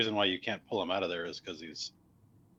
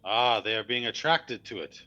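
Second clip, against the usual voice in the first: mildly raised voice; calling out; 3 semitones higher, 4 dB louder than usual. Acted. Casimir answering the player from afar, lightly calling out. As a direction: call back with a touch of projection. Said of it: "so he can shout at you".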